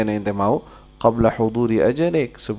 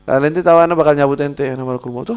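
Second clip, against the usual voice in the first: fast, higher announcement of who he is; angel of death announcing; 3 semitones higher, 4 dB louder, faster than usual. Retold or imitated. Angel of death telling the rich man who he is, fast. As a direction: reveal yourself briskly as the taker of souls.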